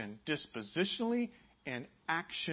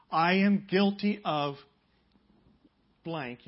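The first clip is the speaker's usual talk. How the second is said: sincere confession; 4 semitones higher, 10 dB louder, slower than usual. Shown as a demonstration. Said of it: "You say".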